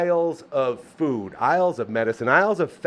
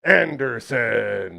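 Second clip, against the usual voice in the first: ring announcer; much slower than usual. Acted. Wrestling-style name call.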